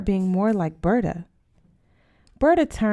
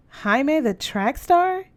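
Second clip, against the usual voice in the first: amazed; 7 semitones higher, much slower than usual. A narrator's reading. Amazed at boyfriend's identity.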